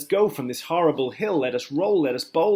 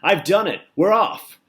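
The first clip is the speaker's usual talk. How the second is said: high, loud triumphant yell; triumphant shout; 7 semitones higher, 10 dB louder than usual. A narrator's reading. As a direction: crow your success down from the ceiling. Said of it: "grinning face ... and shouted".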